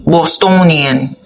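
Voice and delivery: "Bostonian" drawn out slowly in a Boston accent; mock Boston accent. Shown as a demonstration. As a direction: stretch "Bostonian" Boston style. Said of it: "is that Bostonian".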